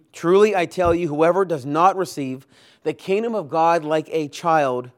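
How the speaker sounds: preacher voicing an indignant Jesus rebuking the disciples; indignant reading. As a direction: read Jesus' words with a firm indignant edge. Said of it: "it colors the words that come next".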